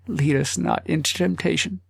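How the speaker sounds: a touch of a breaking voice in prayer; brokenly. Acted. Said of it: "said brokenly".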